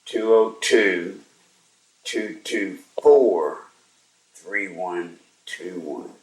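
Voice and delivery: deliberate digits, long gaps between groups; slow dictation. Real, not acted. Host repeats a number for listeners, slow dictation. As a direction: repeat the number slowly so they can copy it.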